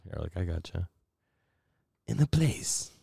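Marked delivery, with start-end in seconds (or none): 2.1-2.9 lightly voiced trailer narrator; a hint of a movie announcer. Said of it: "your narrator voice".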